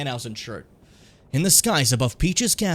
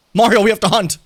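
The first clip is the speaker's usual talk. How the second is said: eager call; 7 semitones higher, 11 dB louder than usual. Pretend. Voicing Cappy urging Mario.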